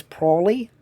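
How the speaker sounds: lightly imitated Australian accent. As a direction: say it with a hint of Australian. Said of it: "want him to have an Australian accent".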